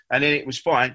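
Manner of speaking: ordinary talk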